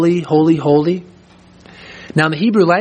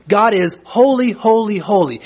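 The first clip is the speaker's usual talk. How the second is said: raised pitch driving through each "holy"; emphatic triple repetition; 6 semitones higher than usual. Shown as a demonstration. Preacher declaring God's holiness, high emphatic "holy, holy, holy". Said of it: "It's beyond a matter of emphasis".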